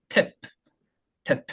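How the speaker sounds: put-on "탭" with a popped final P, as if teaching a child; exaggerated word ending. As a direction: model "탭" with a clear airy release. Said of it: "끄듬을 내줄 때 이렇게". (아이에게 가르치듯 "탭" 끝소리를 터뜨려)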